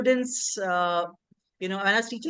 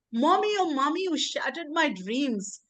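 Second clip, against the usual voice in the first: higher, aching plea to mother; pleading cry; 5 semitones higher than usual. Acted. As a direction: cry out to her mother in grief. Poem's unborn girl pleads.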